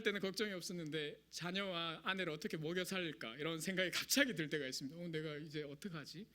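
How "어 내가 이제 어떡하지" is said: ordinary delivery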